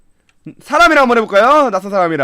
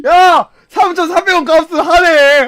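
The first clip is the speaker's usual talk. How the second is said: slower, drawn-out delighted shout; gleeful exclaim; 5 semitones higher, 4 dB louder, slower than usual. Real, not acted. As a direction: savour it. Gleeful at purchase. (신나서 길게 외침)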